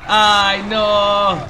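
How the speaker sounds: panicked gamer shouting at his team; alarmed shout. Real, not acted. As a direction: yell at the screen, ve por él!. Teammate in danger mid-match.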